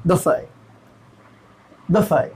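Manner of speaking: बफे, short first vowel, not बुफे; teacher repeats the better बफे for students; better buffet. Shown as a demonstration. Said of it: "ज़्यादा बेहतर क्या है?".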